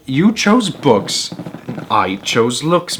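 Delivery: slow, drawn-out smug taunt; smug gloat. Acted. Wife gloating at the teacher, slow and smug. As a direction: savour each word, gloating.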